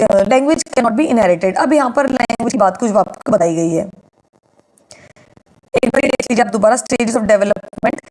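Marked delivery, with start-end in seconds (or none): 0.2-1.6 very slow, word by word, for students to note down; slow dictation. Shown as a demonstration. Teacher dictating key statement. 6.8-8.0 heading drawn out very slowly; slow dictation. Shown as a demonstration.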